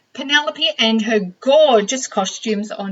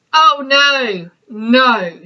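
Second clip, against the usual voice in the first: louder, insistent no; firm no; 6 dB louder, much slower than usual. Acted. Tiny refusing the hippo's choice, firm louder no. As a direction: shut the idea down firmly.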